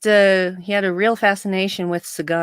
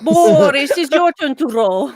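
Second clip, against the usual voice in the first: playful Natasha from Rocky and Bullwinkle, lightly done; 7 semitones higher, 5 dB louder than usual. Pretend. Teasing a podcast co-host about whose turn it is, in a light Natasha voice. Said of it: "I love doing Natasha".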